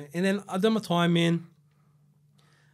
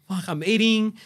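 excited exclaim; 7 semitones higher, 6 dB louder than usual. Retold or imitated. Excited retold quote.

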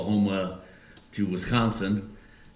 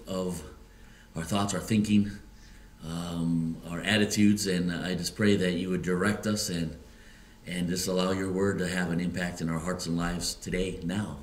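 earnest prayer voice, quicker at the start. Acted. Pastor prays before the sermon, earnest prayer. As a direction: pray it before the congregation.

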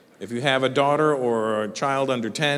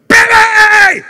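very loud, high, drawn-out holler; spaz-like shout; 15 dB louder than usual. Retold or imitated. Dad bursting into his daughter's room, wild shout. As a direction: burst in yelling the name. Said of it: "I'm a spaz when I'm with my daughter".

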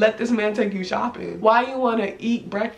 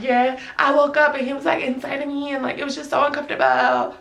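put-on whiny friend; imitating a friend's affected grumble; mock friend's complaint; 3 semitones higher than usual. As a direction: exaggerate her uncomfortable complaint. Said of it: "She don't talk like that, but that's, that's what I was getting".

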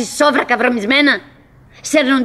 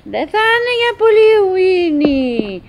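a higher, slower self-soothing voice; talking to herself; 5 semitones higher, slower than usual. Acted. Winnie comforting herself about the bell for sleep. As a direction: reassure yourself gently, slowly. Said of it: "λέω στον εαυτό μου".

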